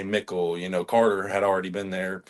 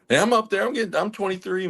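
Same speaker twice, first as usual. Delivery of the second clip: mock outrage; 10 semitones higher than usual. Real, not acted. Mock old complaint, high.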